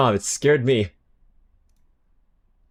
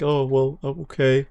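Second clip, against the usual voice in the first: sad goodbye; 3 semitones higher than usual. Pretend. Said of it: "They give you this really sad goodbye".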